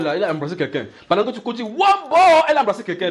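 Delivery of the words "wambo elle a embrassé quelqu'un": high, loud, fast gossip; excited gossip. Retold or imitated. Gossip telling a brother about a sister, excited rush. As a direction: rush it out in a higher, louder voice. Gossiper spreads news of a kiss.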